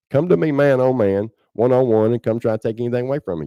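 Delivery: defiant challenge. Real, not acted. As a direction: throw down the gauntlet to the cowards. Challenging the cowards who attacked.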